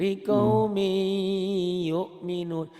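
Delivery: likaumi yu'minun chanted high, "mi" sliding into "yu"; high, loud model of likaumi yu'minun; N merged into Y. Shown as a demonstration. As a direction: recite LIKAUMI YU'MINUN with no N before the Y. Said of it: "Gimana bacanya itu?".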